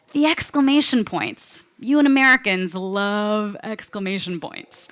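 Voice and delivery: hammed-up slow British accent; horrible British accent. UK manager complaining to Americans, slow mock British accent. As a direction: drag it out in bad British English. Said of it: "I'm doing a horrible accent".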